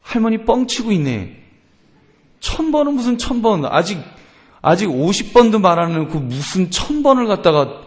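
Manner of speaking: a hint of an indignant kid; child talking back. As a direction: grumble back at grandma's exaggeration. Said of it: "애는 뭐라 그럴까요".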